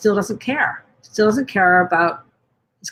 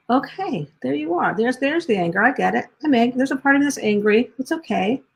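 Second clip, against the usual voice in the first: gentle self-talk; 3 semitones higher than usual. Retold or imitated. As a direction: greet the anger kindly, like a friend. Loving self-talk to own anger.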